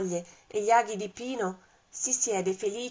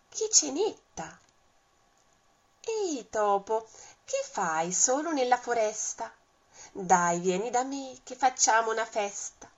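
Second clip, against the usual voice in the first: serpent voice; 3 semitones higher than usual. Acted. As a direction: coax the mouse like a greedy snake. Serpente che invita il topo. (serpente furbo, voce appena più acuta)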